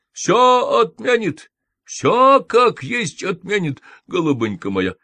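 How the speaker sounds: high, loud and slow, over-sweet; cheerful reassurance. A narrator's reading. Nanny assures the patient, high, loud and sugary. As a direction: overdo the good news like a fawning nurse.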